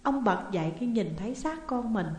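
ordinary delivery, nothing marked

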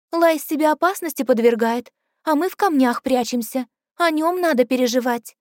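put-on girl's voice. Liluai voiced in story.

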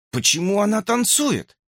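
put-on high, wondering boy's question; Justin puzzled. A narrator's reading. Justin wonders why she dances, high naive question. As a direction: ask naively. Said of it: "спросил Джастин".

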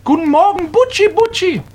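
high, sing-song coo to a pet bird; baby-talk the parrot; sugary high coo. Acted. Old lady cooing to parrot.

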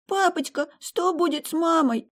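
put-on high child's voice, tearful; a little girl wailing to her dad; crying little girl. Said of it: "ревела Элли".

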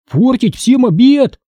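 high, slow exclamation, mildly shouted; indignant cry without full volume; narrated shout. A narrator's reading. Boy objects at the dinner table, mildly shouting. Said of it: "закричал я".

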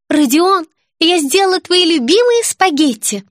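put-on high, sweet cooing girl. A narrator's reading. Girl cooing to her brother on camera, high and sweet. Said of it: "проворковала".

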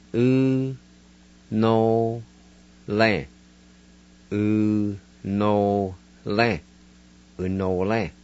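"U, no, lan" spaced, then "Unole" drawn out slowly; careful Cherokee word. Shown as a demonstration. Teacher to Cherokee learners, modelling the word wind. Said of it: "go back and pronounce these words".

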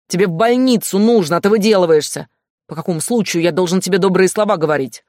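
громкая сердитая отповедь; отчитывай её, повышая голос; сердито. Acted. Стас отчитывает Глашу. (начальник отчитывает Глашу, сердито)

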